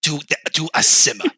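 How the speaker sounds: a hint of a seductive sports pundit; Stephen A. Smith impression. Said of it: "Stephen A. Smith, what do you think".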